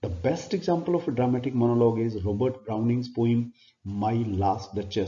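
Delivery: reading notes out word by word, very slowly; slow dictation. Acted. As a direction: dictate it so students can write it down. (धीमे-धीमे notes लिखवाते हुए)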